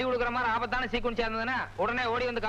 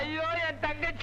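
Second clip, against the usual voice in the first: put-on wail, pitch a little raised; fake crying; 5 semitones higher, slower than usual. Young man fakes tears for the sister to get near the girl. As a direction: pretend to sob over a lost sister. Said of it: "சரி தம்பி, அழாதப்பா".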